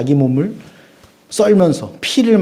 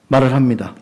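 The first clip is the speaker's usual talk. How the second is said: ordinary talk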